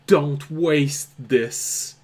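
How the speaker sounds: a faint voice crying out a warning; urgent scream. Acted. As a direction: drag each word out as a desperate plea. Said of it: "You hear that voice screaming".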